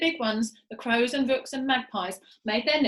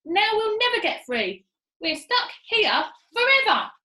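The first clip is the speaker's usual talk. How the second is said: wailing Missus Twit; 10 semitones higher, 7 dB louder than usual. Acted. Missus Twit wails despair.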